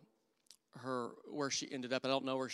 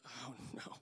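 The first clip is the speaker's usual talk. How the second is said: dismayed hushed oh no; 14 dB quieter than usual. Retold or imitated. Dread at being told to pray.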